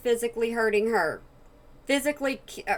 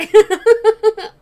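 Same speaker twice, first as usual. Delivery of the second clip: high, loud burst of laughter; 12 semitones higher, 15 dB louder than usual. Real, not acted. Co-host cracks up mid-apology, loud high laughter.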